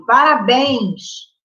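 drawn-out, very slow "Parabéns!"; exclamation. Shown as a demonstration. Teacher demonstrating an exclamatory sentence to students. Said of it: "exclamação".

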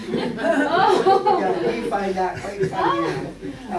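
laughing through the words; amused laugh breaking in. Real, not acted. Laughing at old tourism claim.

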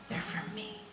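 soft, high, tender reveal; God speaking tenderly to her; soft divine voice. Retold or imitated. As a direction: say it gently like a secret gift. God's reply.

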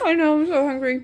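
laughing. Real, not acted. Mom laughs while crunching snacks.

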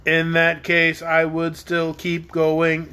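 slow, even and unbothered; calm. Acted. Tick-Tock answering the dragon's threat, calmly and slowly. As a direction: stay serenely unmoved by the threat. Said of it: "remarked Tick-Tock calmly".

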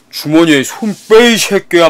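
slow imitation of a tough classmate; lightly voiced school bully, drawn out; thick-voiced thug. Tough classmate ordering hands out of pockets, lightly thuggish. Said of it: "목소리가 진짜 개 굵었거든".

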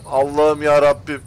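pleading with the sky in despair; exasperated cry. Real, not acted. Bus still won't start.

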